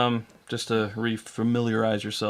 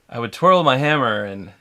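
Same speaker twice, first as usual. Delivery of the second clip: Korg; 6 dB louder than usual. Pretend. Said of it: "I've really been trying to do".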